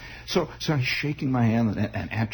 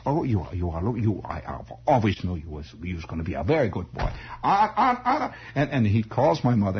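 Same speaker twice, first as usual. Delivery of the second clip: put-on fond old German uncle. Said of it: "they all had this vague German accent".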